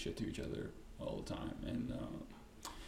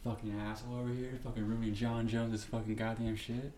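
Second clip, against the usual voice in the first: mock crowd yelling; 3 dB louder than usual. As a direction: heckle him like an angry crowd. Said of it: "And everyone's like".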